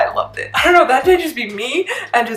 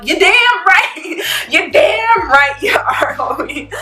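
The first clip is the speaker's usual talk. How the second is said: hyped agreement; 7 semitones higher, much slower than usual. Retold or imitated. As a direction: drag it out, cheering him on. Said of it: "and I'm like".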